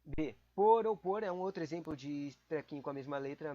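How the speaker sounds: normal talking voice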